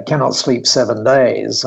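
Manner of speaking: light imitation of a Japanese accent; Japanese-accented English, gently done. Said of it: "in this lovely Japanese accent".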